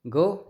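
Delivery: ग said plainly, with no breath push; teacher showing an unaspirated ग; unaspirated demo. Shown as a demonstration. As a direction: voice ग without force. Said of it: "जोर लगा नहीं".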